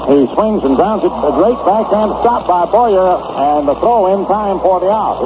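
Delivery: animated live baseball call; excited play-by-play. Real, not acted. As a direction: call the great stop with rising excitement. Live call of a great stop.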